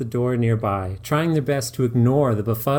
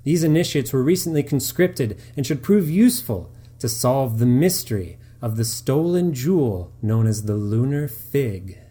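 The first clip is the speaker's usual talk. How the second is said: louder, theatrical game master speech; lightly voiced theatrical game master; dungeon master voice; 3 semitones higher, 4 dB louder than usual. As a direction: announce the quest with pomp. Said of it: "The speaker begins".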